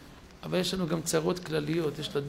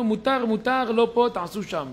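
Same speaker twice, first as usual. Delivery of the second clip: flustered insistence; 6 semitones higher, 5 dB louder than usual. Retold or imitated. Gabbai anxiously pushing them away.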